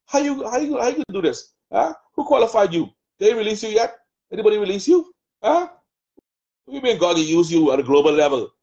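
lightly voiced taunting devil, mocking; the adversary's taunting voice. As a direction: sneer at the listener as the accuser in their head. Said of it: "That's that Goliath spirit".

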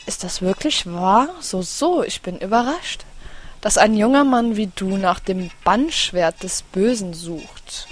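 lightly voiced village elder, measured; old elder voice. Village elder addressing the young hero, lightly voiced and measured. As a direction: read it as a calm old sage.

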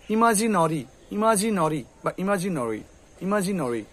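ইমাজিনরি with rounded "no-ri"; nori ending. Shown as a demonstration. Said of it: "ওরা যেহেতু রটাকে গাঢ় করে".

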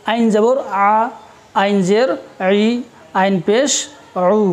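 "আ", "ই", "উ" squeezed from the throat as Arabic ain; slightly hard ain. Shown as a demonstration. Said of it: "এর উচ্চারণটা একটু hard হবে".

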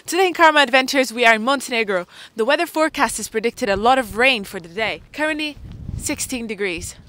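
lightly voiced TV weather presenter; weather forecaster. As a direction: read it like a cheery weather report. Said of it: "I'm a news person giving the weather forecast".

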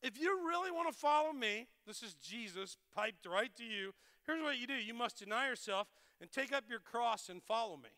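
voicing Jesus. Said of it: "Jesus said to his disciples".

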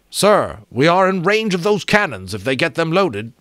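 high, urgent warning; urgent plea. A narrator's reading. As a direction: press the captain, urgently. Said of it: "Martin said urgently".

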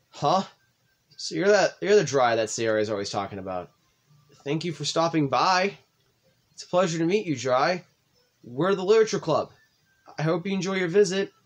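lightly voiced shy, formal girl; shy polite girl. Voicing Yuri, the shy formal girl.

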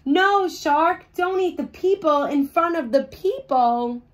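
host begging the shark not to eat the audience. Acted. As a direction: beg the shark to stop, alarmed. Bob pleads with shark.

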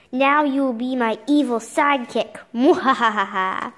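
evil villain cackle; mad scientist. Acted. Villain in comic.

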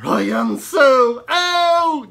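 high, loud, slow puppet protest; a squeaky pig insisting stubbornly; squeaky ventriloquist dummy. Acted.

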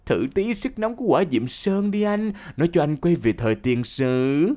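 gleeful taunt. Retold or imitated. Girl taunting her tied-up partner with hot oil, gleeful. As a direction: pitch it up with mock glee. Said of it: "Em khoái chí em bảo chứ".

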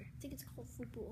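soft unvoiced whisper. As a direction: whisper it back stubbornly. Arguing football versus soccer.

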